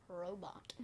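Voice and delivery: breathy whispered punchline. Real, not acted. Kid whispering the last word to his dad. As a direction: drop to a whisper for the joke.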